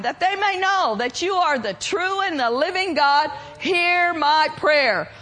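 steady, calm and confident prayer. Retold or imitated. Elijah praying calmly before the prophets of Baal, calm and confident. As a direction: pray it out calm and sure. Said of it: "he said in a calm voice".

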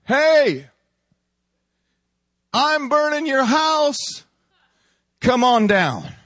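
a preacher voicing the enemy calling the faithful down; enemy taunt. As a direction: jeer like an enemy outside the walls.

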